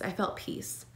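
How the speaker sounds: hushed relief. Real, not acted. Relief after praying in ultrasound.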